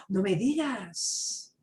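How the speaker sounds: slow, marvelling; surprised. Shown as a demonstration. Teacher contrasting phrases, slow amazement. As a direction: draw it out in wonder. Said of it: "hay una diferencia entre".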